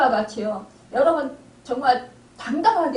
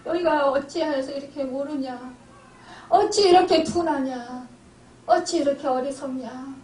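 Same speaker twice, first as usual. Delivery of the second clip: pitying lament. Acted. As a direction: lament them with pity, stretching the words. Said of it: "불쌍한 생각이 드는 거예요".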